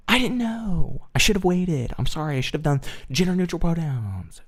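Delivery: high, whiny admission of guilt; mock-contrite apology. Streamer apologizing for the wrong pronouns, high and whiny. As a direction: whimper an apology, easing down from panic. Mock confession after the accusation.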